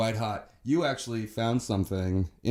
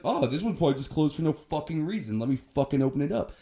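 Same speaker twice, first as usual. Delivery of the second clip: mock entitled passenger; 4 semitones higher, faster than usual. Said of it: "but she's like".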